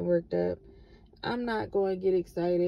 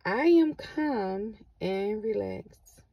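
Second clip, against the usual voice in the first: slow affirmation; slower than usual. Pretend. Repeating a calming affirmation.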